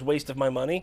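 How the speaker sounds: scornful verdict. Pretend. Fan reviewing a terrible movie, scornful. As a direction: spit out the verdict.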